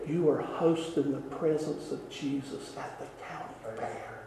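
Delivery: very soft, low, confiding voice; retold whisper. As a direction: imitate her whispering, hushed and low. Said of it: "in a whisper".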